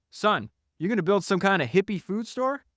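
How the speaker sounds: high-pitched mock disbelief; incredulous challenge. Ben stopping John about his store, mock incredulous. Acted quarrel over the store.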